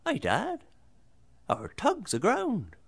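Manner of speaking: put-on high-pitched boy calling to his dad; lightly voiced lad calling out; lad shouting. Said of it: "the lad, he shouts to me".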